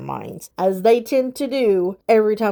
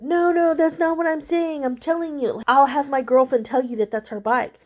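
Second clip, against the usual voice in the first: lightly voiced nervous guy, higher pitched; back-pedal like a caught man, a bit higher; defensive guy; 6 semitones higher than usual. Other guy's defensive reply quoted.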